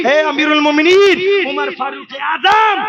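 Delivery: returning killer calls to the caliph from afar, a long high cry; calling out from afar. Acted. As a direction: cry out across the dust to the caliph. Voice calling from dust.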